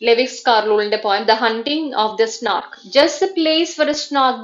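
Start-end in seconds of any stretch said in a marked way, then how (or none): 3.0-4.4 slow, higher-pitched recitation; anapestic verse reading. Shown as a demonstration. Teacher reading Carroll as an example of anapestic meter, measured. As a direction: read out slowly, beat by beat. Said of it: "two unaccented syllables followed by an accented".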